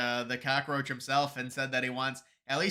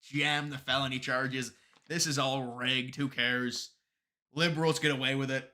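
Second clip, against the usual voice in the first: mock Bragg; slower than usual. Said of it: "He said".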